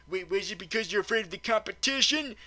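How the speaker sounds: normal talking voice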